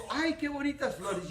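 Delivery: hammed-up hinting wife. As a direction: drop a sweet hint about the flowers. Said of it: "Cuando la mujer dice".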